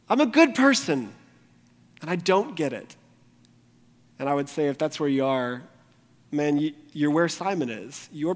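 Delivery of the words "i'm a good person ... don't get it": mock laughing pride. Mocking a self-righteous churchgoer.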